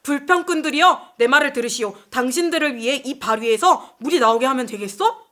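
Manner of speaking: acted rebuke, loud on the opening call; a touch of exasperated indignation; angry Moses. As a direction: address the grumblers with mild acted anger. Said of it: "백성들에게 화를 내면서 이렇게 말해요".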